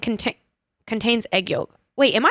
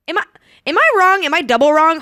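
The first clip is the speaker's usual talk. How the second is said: alarmed self-doubt; 6 semitones higher, 5 dB louder than usual. Real, not acted. Realising her mistake mid-search.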